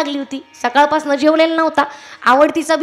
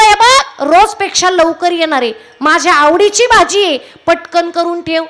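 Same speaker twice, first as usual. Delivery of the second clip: eager. Retold or imitated. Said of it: "एवढा उत्साहानं तो तिला सांगत होता".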